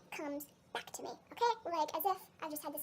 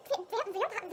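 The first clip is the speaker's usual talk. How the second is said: stammering; 3 semitones higher, slower than usual. Retold or imitated. Stammering at the vampire reveal.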